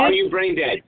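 squeaky high furious taunt; shrill anger. Real, not acted. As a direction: shriek the insult up high. Insulting the host mid-argument.

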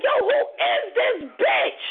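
high, drawn-out mock yell; hard, voice restored. Inmate calling out once her voice returns, hard and high. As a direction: stretch it out in a high-pitched call. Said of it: "I said it so hard my voice came back".

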